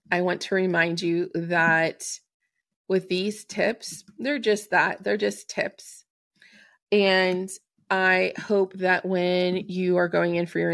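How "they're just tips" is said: slow breathy aside; whisper. Real, not acted. Host reassuring listeners the tips are only tips, whispered. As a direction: whisper it like a little secret.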